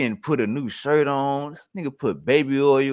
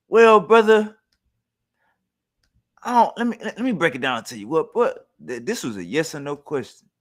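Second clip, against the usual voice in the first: mocking J J; 2 semitones higher than usual. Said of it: "J J says".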